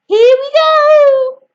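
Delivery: high, loud, slow exclamation; cried out. A narrator's reading. George springing the medicine on Grandma, loud slow cry. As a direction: call it out big and slow. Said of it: "George cried out".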